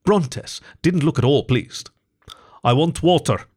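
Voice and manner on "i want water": flat. Acted. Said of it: "he said flatly".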